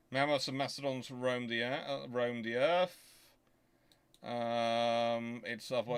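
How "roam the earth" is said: usual speaking voice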